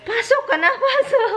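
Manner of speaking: very high call breaking into laughter; laughing call. Retold or imitated. Telling the dog to come in, laughing. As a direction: call the dog in while cracking up. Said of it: "sabi ko".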